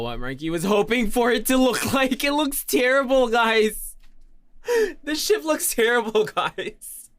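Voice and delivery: high, loud, laughing wail; laughing dismay. Real, not acted. Streamer showing viewers a terrible ship, laughing in high-pitched dismay. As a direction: lament it through helpless laughter.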